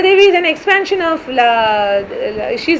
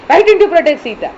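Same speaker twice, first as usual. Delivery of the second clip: louder, fast reproach; shouting; 4 semitones higher, 5 dB louder, much faster than usual. Acted. Rama shouting at Lakshmana for leaving Sita, loud fast demand. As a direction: fire the question at him. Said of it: "and Rama is shouting".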